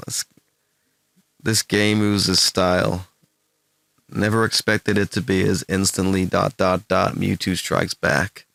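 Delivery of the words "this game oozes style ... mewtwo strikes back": deliberate American-accent read, slow at the ends. Shown as a demonstration. Streamer reading game posts to test it, attempted American accent. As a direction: have a go at sounding American while reading. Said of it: "can you do your best American accent".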